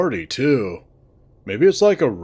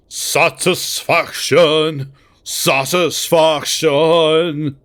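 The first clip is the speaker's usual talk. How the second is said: slow, stiff robotic chant; drawn-out monotone robot; 4 semitones higher, 3 dB louder, much slower than usual. Acted. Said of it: "Carl says this in a robotic voice".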